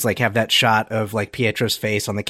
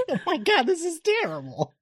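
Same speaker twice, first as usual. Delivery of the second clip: mock dismay; 6 dB quieter than usual. Voicing a character's dismay.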